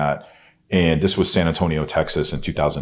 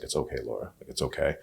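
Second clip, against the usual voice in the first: soothing comfort; 2 semitones lower, 8 dB quieter than usual. Retold or imitated. Comforting sister on floor, petting hair.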